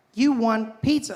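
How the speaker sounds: high-pitched phone assistant voice, answering back. Acting out the phone assistant answering a request: Siri voice. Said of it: "She's like".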